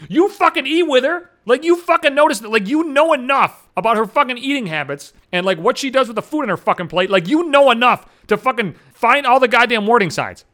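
retold argumentative rant; exasperated rebuke. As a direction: turn it back on them, indignant. Rebuking the chatterbox in retelling.

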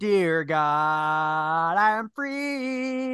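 slow, grand deer god voice. Pretend. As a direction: proclaim it like a god. Drinking, playing the deer god.

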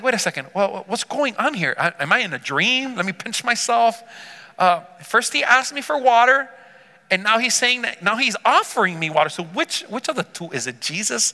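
lightly acted bewilderment, pitch jumping up; shocked confusion. Woman questioning Jesus's offer of water, confused. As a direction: puzzle it out aloud as the confused woman. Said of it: "Now she's shocked and confused".

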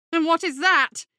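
high, loud frightened squeak; squeaky. Acted. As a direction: squeak it out in panic. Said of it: "he squeaked".

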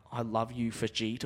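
low, soft declaration of love; tender gratitude. Retold or imitated. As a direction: thank a rescuer softly and sincerely. Grateful to cleaner returning pants.

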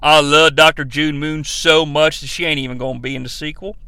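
lightly voiced Rick Flag confessing; low mock Flag. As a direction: play him as a deadpan dimwit. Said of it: "Rick Flag's like".

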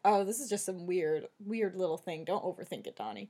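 quiet, low talk to yourself; softly dismissing your own worry; retold self-reassurance. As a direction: talk yourself down, voice sinking away. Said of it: "then I was like".

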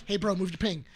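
nice, polite request. Retold or imitated. Buddy asking stranger to move ping, politely. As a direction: keep it friendly and low-key. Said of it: "trying to be as nice as possible".

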